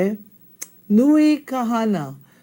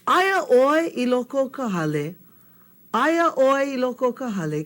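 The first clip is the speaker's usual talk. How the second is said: higher-pitched call through the door; 4 semitones higher than usual. Acted. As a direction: call to someone inside. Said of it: "he calls and he goes".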